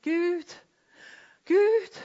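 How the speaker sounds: a desperate cry rising to a shout; crying out to God. Retold or imitated. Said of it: "Jeg bare ropte".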